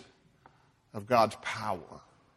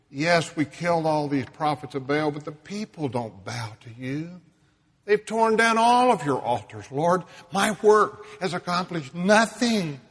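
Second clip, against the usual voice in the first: despairing complaint; 4 semitones higher, 4 dB louder than usual. Acted. Elijah's despairing complaint voiced.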